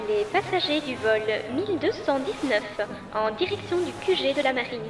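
high tannoy voice over speakers; boarding call on the public address; airport announcement. Acted.

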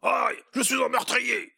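high, loud, slow hammed-up wail; cry of despair. Elf crying out over the broken doll, high loud wail. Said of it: "s'écria".

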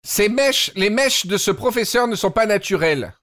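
talking while sucking a candy; candy in the mouth while speaking; eating candy. Real, not acted. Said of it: "Excusez-moi, je mange des bonbons, mais ça va trop s'entendre".

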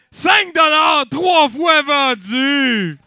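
crié très haut, très fort et très lent; adjugé en criant. Acted. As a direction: adjuge la vente comme un encanteur qui hurle. Encanteur adjuge la vente. (encanteur qui crie « vendu » lentement)

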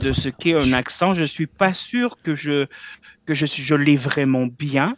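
put-on accent from France by a Québécois; Québécois doing a French accent. Shown as a demonstration. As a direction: imitate a French speaker. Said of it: "avec l'accent français".

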